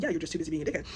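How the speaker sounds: low, soft under-the-breath jab; quietly muttered. Retold or imitated. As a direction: say it quietly so he won't hear. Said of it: "I said, like, quietly".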